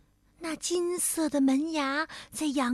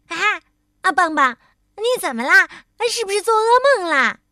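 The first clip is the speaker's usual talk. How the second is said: alarmed worry; 6 semitones higher, 9 dB louder, faster than usual. Acted. Friend wakes up alarmed.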